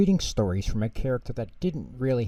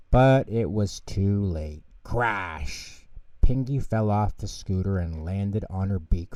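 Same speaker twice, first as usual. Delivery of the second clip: put-on lively children's storybook narration; reading to children. A narrator's reading. Narrator reading Pingu to children, lively storytelling. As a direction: read it like a bedtime story for kids.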